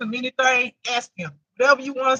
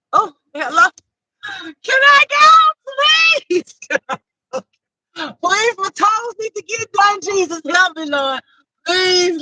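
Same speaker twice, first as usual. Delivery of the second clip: high, loud, drawn-out pleading; comic begging; 6 semitones higher, 7 dB louder, slower than usual. Pretend. Begging God to send her to be pampered, high loud comic pleading. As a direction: ham up a desperate plea to the Lord.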